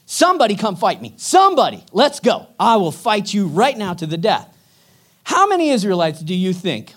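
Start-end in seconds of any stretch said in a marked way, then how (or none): 0.1-4.5 loud, mocking call to fight; taunting shout. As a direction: yell it like a bully begging for a fight. Goliath taunting daily.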